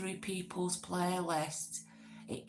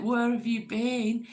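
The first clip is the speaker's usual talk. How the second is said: louder, higher mock reproach; mock demanding; 4 semitones higher, 6 dB louder than usual. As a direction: act out demanding to know, raised voice. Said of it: "I weren't saying it like".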